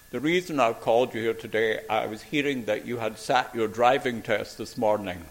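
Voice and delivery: lightly imitated posh Glaswegian headmaster; a hint of marble-in-the-mouth Glasgow posh; posh Glasgow accent. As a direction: put on a slightly plummy Glasgow accent. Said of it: "he had a very posh accent".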